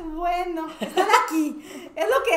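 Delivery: giggling through the words, slowed; laughing. Retold or imitated. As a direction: laugh while grudgingly accepting. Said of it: "yo dije que". (riendo entre dientes)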